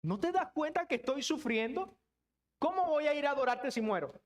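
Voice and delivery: wyrzut cierpiącego skierowany do Boga; pytający lament. Acted. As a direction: ask God in pained, rising protest. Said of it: "tienen este tono".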